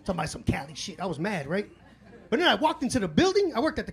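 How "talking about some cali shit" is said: disappointed grumble. Retold or imitated. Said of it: "I'm like".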